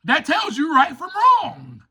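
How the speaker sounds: preaching. Real, not acted. Speaker to the meeting, briefly breaking into preaching. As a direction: preach it out to the room. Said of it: "Don't make me start preaching up here".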